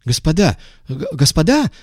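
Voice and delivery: high, stammering and lost; flustered stammer. A narrator's reading. Visitor losing his footing, flustered stammer. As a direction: stumble over the words, confused. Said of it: "растерянно забормотал Иванов".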